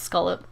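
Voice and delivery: "scallop" said SKOL-up; "scallop" with an o in the first syllable; local pronunciation. Shown as a demonstration. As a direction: say "scallop" to rhyme with "dollop". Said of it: "over here it's pronounced scallop".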